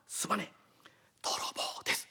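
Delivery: soft, hushed confession; whispered apology. Acted. Scolded thief whispers to the mistress, hushed and sheepish. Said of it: "今更ひそひそ声で何話してんのよ。".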